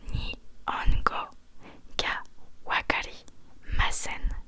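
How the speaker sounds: «Nihongo ga wakarimasen» spelled out slowly in a whisper, syllable by syllable; slow whispered Japanese. Shown as a demonstration. Teacher showing a student how to say «Nihongo ga wakarimasen». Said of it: "tu vas dire".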